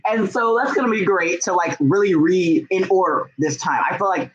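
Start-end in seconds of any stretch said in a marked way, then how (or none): none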